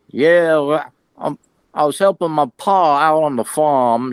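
imitating a rural Southern hick accent, the Southern twang roughly put on. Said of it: "Cannonball sounds like a hick".

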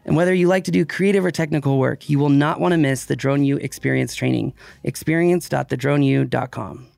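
scripted sponsor read over music; polished podcast ad delivery. Acted. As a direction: read the promo smoothly and evenly. Reads a sponsor ad.

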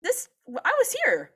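high posh British accent, mocking; a pompous British settler claiming the land; mock British colonizer. British accent. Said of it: "I have a British accent".

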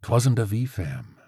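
slow, grave crow voice; dire. Acted. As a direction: warn ominously like an old crow. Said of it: "the crow responded direly".

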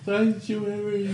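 slow, eerie drawn-out name; dramatic spooky voice. Pretend. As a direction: intone it like a horror trailer. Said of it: "say it that way from this point forward".

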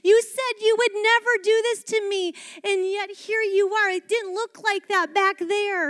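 loud, high, wounded reproach; hurt accusation. Acted. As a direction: call them out for breaking a promise. Acted hurt accusation opens sermon.

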